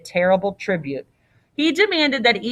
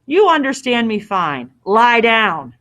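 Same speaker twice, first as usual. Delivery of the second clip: firm, louder order, mildly menacing; insistent; 2 semitones higher, 5 dB louder than usual. Acted. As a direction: press the order home. Innkeeper insists he lie down.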